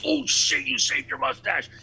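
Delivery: high-pitched retold surprise at dad's shaved lip; sudden realization. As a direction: blurt it out as it finally dawns on you. Son finally notices shaved mustache.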